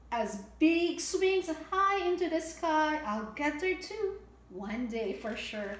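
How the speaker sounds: bright, sing-song storybook read; lilting picture-book reading; reading to children. A narrator's reading. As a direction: read it out like storytime for little ones.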